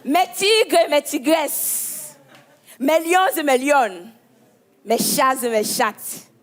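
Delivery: slow, theatrical greeting to followers; drawn-out influencer welcome. Acted.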